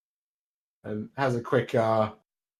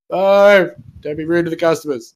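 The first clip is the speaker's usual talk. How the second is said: raised, higher scolding call; 5 semitones higher, 4 dB louder than usual. Acted. Mother upstairs to her son in the shop, calling out. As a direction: call down a reprimand. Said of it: "hear a voice from upstairs call out".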